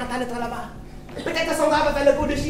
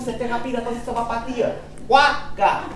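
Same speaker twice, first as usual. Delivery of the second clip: ordinary talk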